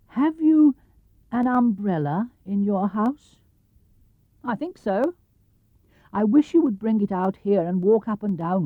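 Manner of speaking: lightly high bear voice; a small bear explaining his plan; Pooh bear. Acted. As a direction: bear asking for a favour. Pooh voice held.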